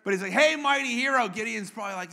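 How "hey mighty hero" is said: calling out. Acted. Angel hails a hiding Gideon.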